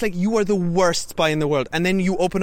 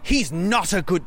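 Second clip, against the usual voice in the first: slow, measured mock movie line; deliberate quoted warning; slower than usual. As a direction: weigh out each word like dialogue. Quoting film's stern warning, word by word.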